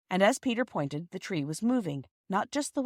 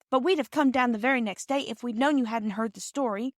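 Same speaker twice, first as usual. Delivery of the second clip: put-on hasty girl; 6 semitones higher than usual. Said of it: "Phyllis added hastily".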